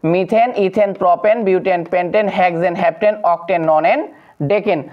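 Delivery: "মিথেন", "ইথেন" ending in a clear -en; teacher listing "মিথেন" to "ডেকেন" with -en endings; ending pronounced EN. Shown as a demonstration. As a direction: recite the list, each name ending -en as in "ডেকেন". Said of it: "উচ্চারণ হবে এন".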